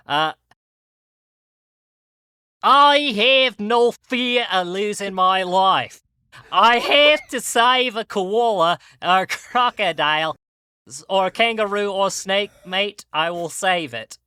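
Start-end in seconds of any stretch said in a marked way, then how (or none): 2.6-14.2 bad Australian accent mixed with a New York twang; mock Australian accent. Answering a fan's question as a brave wildlife host, in a bad mock Australian accent. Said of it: "most offensive Australian accent I can".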